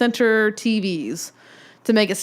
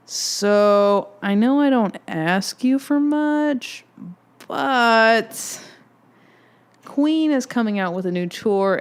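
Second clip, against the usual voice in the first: sweet asking voice; slower than usual. Retold or imitated. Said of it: "And I went".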